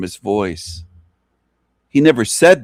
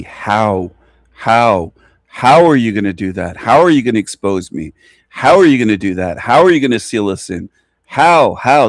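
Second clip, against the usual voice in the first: hammed-up demons demanding how, louder by the end; mocking demons asking; 4 dB louder than usual. Mimicking demons who pester him to know how. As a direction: sneer out their pestering questions. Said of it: "They ask me".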